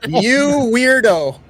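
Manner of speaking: high, loud-ish drawn-out mimicry; teasing echo of a strained yell; mock intimidation. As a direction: imitate a silly threat, stretching the words.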